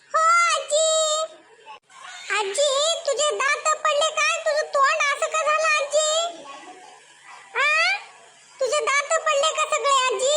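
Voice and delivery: put-on high boy's voice, innocent teasing; a little boy asking granny about her teeth; child voice. (आजीला चिडवणारा लहान मुलाचा आवाज)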